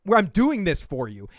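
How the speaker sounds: high, loud mock sweetness; imitating a fake-gracious favor giver; mock fake generosity. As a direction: play the falsely gracious friend. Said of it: "then being like".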